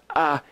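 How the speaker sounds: AH as an isolated open vowel; letter sound demo. Shown as a demonstration. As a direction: sound out AH like a phonics teacher. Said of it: "This letter is pronounced".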